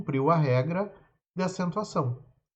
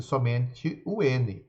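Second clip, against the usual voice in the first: slow stressed; 3 semitones lower, 4 dB quieter, much slower than usual. Shown as a demonstration. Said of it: "A regra não contempla o N S".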